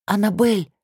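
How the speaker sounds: hoarse whispered call; raspy whisper. A narrator's reading. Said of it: "зову хриплым шёпотом".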